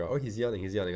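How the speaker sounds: ordinary delivery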